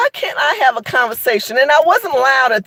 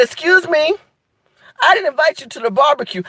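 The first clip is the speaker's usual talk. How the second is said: sassy brush-off; 3 semitones higher than usual. Shown as a demonstration. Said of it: "you need to look at them and say".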